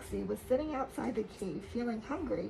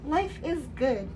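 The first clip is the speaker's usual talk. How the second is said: slow, louder joyful call; happy cheer; 3 semitones higher, 5 dB louder, slower than usual. Acted. Friends cheering as they run to school. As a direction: cheer it out in relief.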